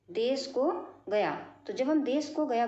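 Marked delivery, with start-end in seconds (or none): 0.1-1.3 देश को गया said again slowly, word by word; slow repeat. Shown as a demonstration. Teacher repeating the example for students, slowly. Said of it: "दूसरा शब्द है देश को गया".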